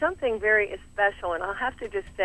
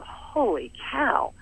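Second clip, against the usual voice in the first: slow, higher-pitched mock astonishment; imitated amazement; 5 semitones higher, 4 dB quieter, much slower than usual. Strong guys walk into a tough workout, imitated amazement. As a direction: draw it out as a stunned strong guy. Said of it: "walked in and gone".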